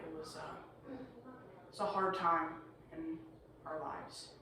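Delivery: halting, slow and subdued; getting choked up recalling a hard time, with long pauses; a little emotional. Acted. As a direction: falter softly through a painful memory. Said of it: "getting a little emotional".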